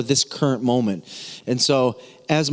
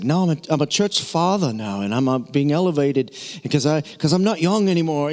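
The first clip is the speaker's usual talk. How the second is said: lightly imitated Australian accent. Preacher quoting a podcast pastor, lightly Australian accent. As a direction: quote him with a hint of Australian. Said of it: "he's got this cool Australian accent".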